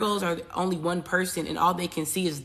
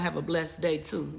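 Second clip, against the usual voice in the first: softer, sweetly polite farewell; soft sweet send-off; 7 dB quieter than usual. Retold or imitated. Retelling her apology to a neighbor, soft and sweet. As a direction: sweeten it to make peace. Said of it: "I told her".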